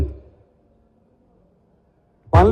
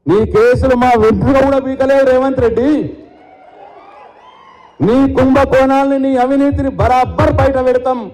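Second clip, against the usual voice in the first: raised, higher defiant taunt, slowing on the threat; a politician's fierce public challenge, pitch raised; 4 semitones higher than usual. Real, not acted. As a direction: dare the chief minister straight to his face. Defiant challenge to Revanth Reddy.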